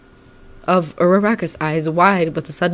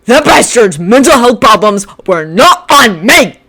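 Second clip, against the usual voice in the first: loud, slow, raised sneer; leering; 7 semitones higher, 10 dB louder than usual. Acted. Bakugo jeering at Shinso, loud and slow. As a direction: jeer it at him. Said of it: "Bakugo leered".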